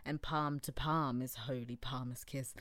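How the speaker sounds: serious dramatic reading. Shown as a demonstration. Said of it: "This is how I would do it anyway".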